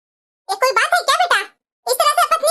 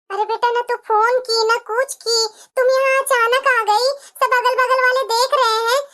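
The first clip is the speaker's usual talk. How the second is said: a lower mother's voice, calming her crying daughter; soothing mother; 4 semitones lower than usual. Acted. Mother calming her crying daughter who arrived at night, soothing and lower. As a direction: hush her like a worried mother.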